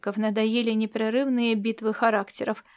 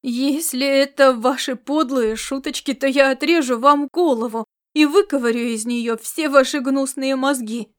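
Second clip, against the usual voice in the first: louder, furious threat; growled threat, louder; angry bark; 5 dB louder than usual. Acted. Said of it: "рявкнул он".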